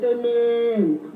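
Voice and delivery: long held answering call; householder answering. Acted. Householder telling visitor to come in, drawn-out answering call. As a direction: answer with a stretched final syllable. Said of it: "and, and they say".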